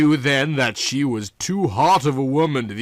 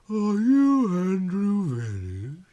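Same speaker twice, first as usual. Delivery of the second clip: slow, higher Southern drawl; 6 semitones higher, slower than usual. A narrator's reading. Visitor asks the detective's name in a Southern drawl. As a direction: stretch each word in a Southern accent. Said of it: "her thick southern drawl".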